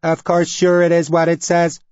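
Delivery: high, loud alien shock; shocked anyone could doubt. A narrator's reading. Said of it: "The alien voice sounded shocked".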